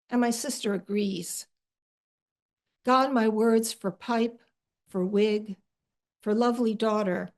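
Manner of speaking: measured, unhurried poetry reading with long pauses; poem reading. Acted. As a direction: let each image settle before the next. Reading her own poem aloud.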